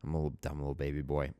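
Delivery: mock-intimidated baby boy voice; small baby voice. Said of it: "I was like".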